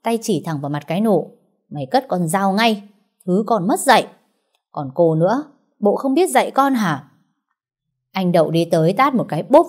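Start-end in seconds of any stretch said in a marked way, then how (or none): 1.7-7.1 mild shout. Acted. Đậu yelling at Nụ and her mother, mildly shouted. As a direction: bark the order, then turn on the mother. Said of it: "đứng dậy quát".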